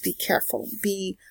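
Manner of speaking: hushed, breathy caution; whispered warning. Acted. Whispering a driving warning to viewers, softly.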